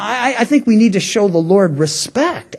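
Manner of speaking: ordinary talk, nothing marked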